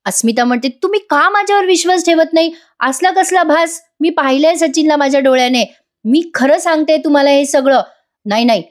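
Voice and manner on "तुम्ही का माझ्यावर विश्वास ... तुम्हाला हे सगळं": upset protest. Retold or imitated. Asmita protests, not believed.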